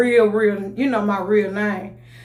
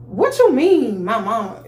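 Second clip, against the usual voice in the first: sharp, louder retort, pitch up; snapping back; 6 dB louder than usual. Retold or imitated. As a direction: snap back at her in disbelief. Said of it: "I kinda snapped".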